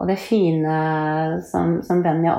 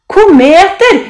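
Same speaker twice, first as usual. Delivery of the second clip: high, loud burst of excitement; excited shout; 12 semitones higher, 14 dB louder, slower than usual. A narrator's reading. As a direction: cry it out like a thrilled child. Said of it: "roper Benny". (begeistret rop)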